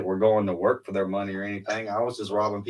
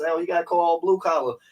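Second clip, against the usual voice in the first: hotel guy voice; 8 semitones higher, 4 dB louder than usual. Retold or imitated. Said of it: "He says".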